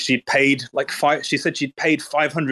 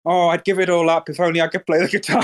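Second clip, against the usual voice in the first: higher mock-wistful humblebrag; mock humble; 5 semitones higher than usual. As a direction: imitate someone putting on humility, pitched up. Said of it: "trying to act all humble and shit".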